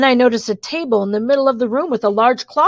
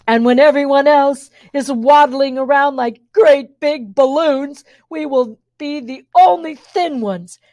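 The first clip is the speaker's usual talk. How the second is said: villain sisters' rant; 3 semitones higher than usual. Acted. Beauty sisters gloating at the girl, lightly voiced. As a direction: savour the dream of being the only thin ones. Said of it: "concluded the Beauty sisters".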